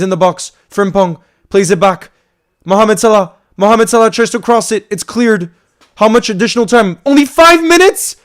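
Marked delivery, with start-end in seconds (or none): 2.6-8.2 louder play-by-play climbing into a high, outraged question; cheering the attack, then disbelief at the added time; rising outrage. Real, not acted. Fan reacting to the added time, rising outrage.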